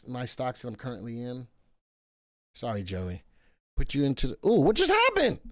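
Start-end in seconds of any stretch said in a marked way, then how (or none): 4.5-5.4 surprised. Real, not acted. Screen glitch surprise.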